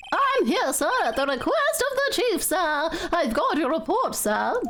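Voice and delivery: eager rookie reporting in; eager officer. Acted.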